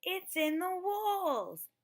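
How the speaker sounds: screeched high, loud and slow; screeching. Acted. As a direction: shriek it in alarm, way up high. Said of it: "Owl screeched".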